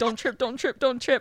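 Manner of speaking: fast, anxious, nervous muttering to oneself. Retelling walking onto a red carpet: imitating own nervous muttering. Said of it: "I'm, like, nervous".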